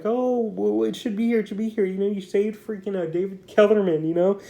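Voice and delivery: hammed-up worried gush; freaking out. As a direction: act out a flustered agent fussing over his client. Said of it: "celebrity agent's all freaking out".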